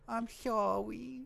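mumbled, slow non-apology; a slow, grudging sorry; half-hearted sorry. Pretend. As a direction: say sorry without meaning it. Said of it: "That's a non-apology".

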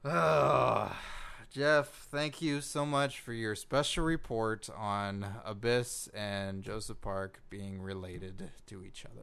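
low, slow, deflated sign-off; defeated. Acted. Host thanks reporter for a useless special report, defeated. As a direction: drag it out quietly, like giving up. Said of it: "Man, you sound so defeated".

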